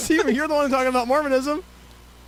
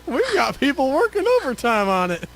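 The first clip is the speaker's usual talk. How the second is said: light Southern twang; folksy Southern reassurance; Southern accent. Acted. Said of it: "we're back to Southern".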